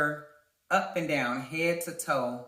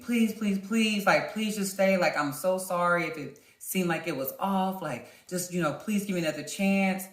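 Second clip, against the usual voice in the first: mock begging; 4 semitones higher than usual. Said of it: "So he begged me".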